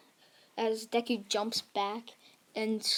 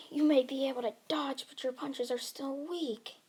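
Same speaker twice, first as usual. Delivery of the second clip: higher, quick sneering challenge; higher-pitched battle taunt; villain's taunt; 4 semitones higher than usual. Acted. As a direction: taunt a weaker opponent.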